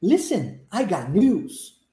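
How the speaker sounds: slow, deliberate model sentence with stretched "news"; listen-and-repeat model. Shown as a demonstration. Teacher modelling for students with closed eyes, slow repeat-after-me. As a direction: say it slowly for learners to copy. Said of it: "listen and repeat".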